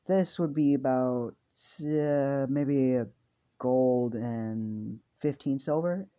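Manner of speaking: loud, drawn-out reckoning of a price; drawn-out, considering tone; slow price quote. Acted. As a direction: weigh up the price slowly and loudly. Merchant quoting a price in dialogue.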